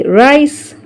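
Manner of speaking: "rice" stretched slowly, the I said like its letter name; "rice" with a long letter-name I. Shown as a demonstration. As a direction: draw out the I in "rice". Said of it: "اتنطق ال I اتنطق زي ما هي I".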